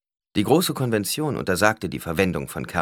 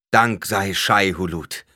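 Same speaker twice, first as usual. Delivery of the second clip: relieved call; 5 dB louder, slower than usual. A narrator's reading. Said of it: "rief Stilgar und lief herbei".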